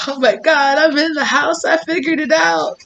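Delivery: high, excited squeal as the dog; pleased, super hyped. Retold or imitated. Dog triumphant at getting herself into the house, super hyped. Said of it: "she is so pleased with herself".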